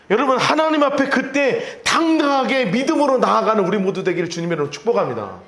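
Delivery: high, sustained sermon exhortation; impassioned preaching. Real, not acted. Preacher urging congregation through God's door of grace, impassioned. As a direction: press the blessing home with rising fervour.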